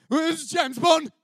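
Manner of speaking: imitating James Bond, a bit hammed-up. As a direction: deliver it like a suave spy. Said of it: "and I did this".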